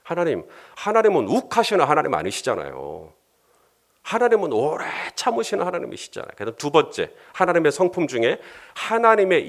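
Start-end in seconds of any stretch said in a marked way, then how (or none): 0.0-6.3 mild acted pleading, pitch climbing; 설득하며 말림. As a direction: gently talk an angry God down, drawing out the appeal. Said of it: "모세가 설득을 해요". (달래듯 설득하며 말리는 말투)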